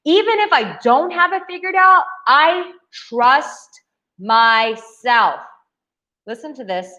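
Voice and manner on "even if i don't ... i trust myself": confident. Shown as a demonstration. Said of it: "the other mindset is".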